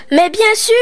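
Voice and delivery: high, bright burst of realisation; excited exclamation. Acted. Amélie suddenly realises, high excited cry. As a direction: it all clicks at once. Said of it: "Amélie poussa une exclamation".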